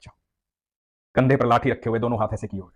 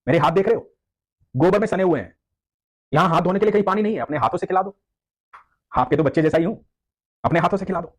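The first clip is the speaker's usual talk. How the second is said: put-on higher childlike coaxing; boy pleading; 4 semitones higher than usual. Boy asking the devotee to feed him by hand, childlike plea. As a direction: sweetly ask to be fed. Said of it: "बच्चा बोला".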